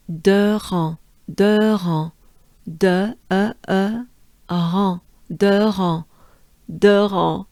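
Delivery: "De ran" sounded out syllable by syllable; syllable drill. Shown as a demonstration. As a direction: model "De ran" slowly in French, piece by piece. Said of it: "it sounds like this".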